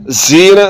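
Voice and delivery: जीना as buzzing 'zeena'; wrong whistling z. Shown as a demonstration. Teacher demonstrating the mistake, whistling z. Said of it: "सीटी की आवाज़ पैदा हो रही है".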